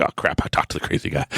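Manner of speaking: hushed, quick regretful mumble; dismayed aside. Retold or imitated. Passenger regrets answering the crazy guy, hushed dismay. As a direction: say it fast under your breath.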